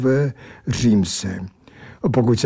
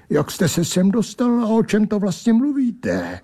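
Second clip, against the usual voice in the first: tag; 8 semitones higher than usual. A narrator's reading. Startled narrator questions the intruder.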